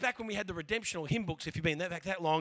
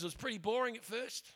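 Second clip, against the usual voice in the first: put-on higher, excited teen; imitating an amazed cousin; 6 semitones higher, 7 dB louder than usual. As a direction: gush like a stunned teenager. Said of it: "He goes".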